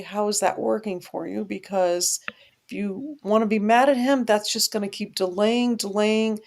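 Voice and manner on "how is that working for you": soft, loving question; lovingly. Retold or imitated. Speaker gently challenging someone mad at God, lovingly. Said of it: "I just lovingly say".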